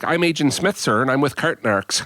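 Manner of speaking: imitated officious parking-lot agent; Agent Smith. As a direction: introduce yourself like a mock-official agent. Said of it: "they're all putting a voice on".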